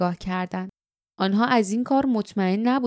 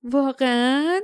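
higher-ending, lightly amused question; 3 semitones higher than usual. A narrator's reading. Fardeep reacting to Doom's promise, mildly amused. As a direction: ask with a hint of laughter. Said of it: "با خنده گفت".

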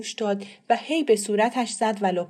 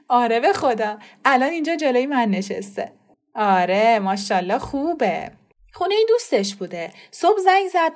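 louder, cheerful phone news; happy on the phone; 4 semitones higher, 4 dB louder than usual. Acted. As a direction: beam good news into the phone. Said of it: "با خوشحالی گفت". (مادر با خوشحالی پشت تلفن)

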